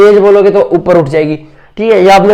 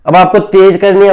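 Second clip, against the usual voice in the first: a touch louder, pushing the note up; louder demo. Shown as a demonstration. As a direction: lift the voice a little on this instruction. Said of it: "बताया जाएगा कि अब आपको frequency".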